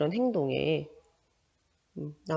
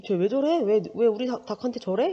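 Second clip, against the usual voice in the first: annoyed mutter; 4 semitones higher than usual. Retold or imitated. Teacher voicing the narrator's annoyance at Jeomsun, a mildly annoyed question. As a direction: act out the boy's annoyed "what is she doing".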